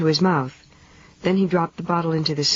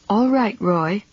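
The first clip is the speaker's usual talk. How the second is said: holding herself together; 5 semitones higher, slower than usual. A narrator's reading. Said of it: "holding herself together".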